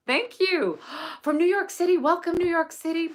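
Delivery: light up as the name appears; delighted welcome. Real, not acted. Teacher spotting a viewer from New York City, thrilled greeting.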